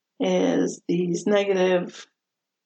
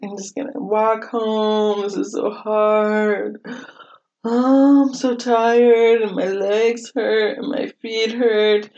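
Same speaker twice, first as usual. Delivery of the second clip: whiny complaint; 2 semitones higher, 4 dB louder, slower than usual. Retold or imitated. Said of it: "I really feel like".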